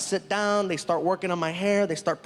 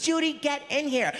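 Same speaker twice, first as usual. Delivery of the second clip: calling out; 6 semitones higher than usual. Retold or imitated. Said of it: "they call a receptionist".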